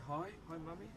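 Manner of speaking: put-on showing a child how to whisper hello to Mum; inside voice. Shown as a demonstration. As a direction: model a hushed little greeting. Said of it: "Can you say".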